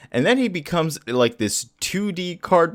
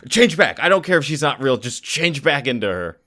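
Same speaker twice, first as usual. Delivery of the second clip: freaking out. Retold or imitated. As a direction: act out an agitated demand, easing off. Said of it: "the conspiracy theorist starts freaking out".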